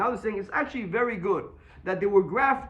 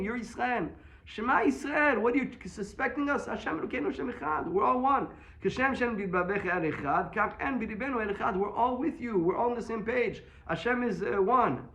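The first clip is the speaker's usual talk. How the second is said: sons reassuring father; 5 semitones higher than usual. Retold or imitated. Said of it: "They were telling him".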